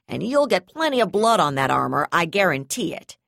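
loud sneering threat; sneering angry threat. Acted.

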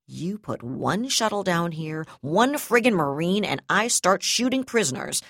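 grind out the threat, then explode; angry threat. Acted. Prisoner-threat standoff, rising fury.

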